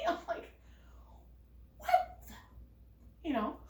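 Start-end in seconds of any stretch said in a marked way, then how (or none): 1.8-2.3 voiceless, punched whisper of disbelief; mock-shocked whispered exclamation; stunned whisper. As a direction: act out a dumbstruck whisper. Stunned reaction acted out.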